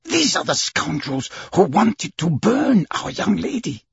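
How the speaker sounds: high-pitched indignant servant voice. Acted. Servant points out the priests as scoundrels, indignant.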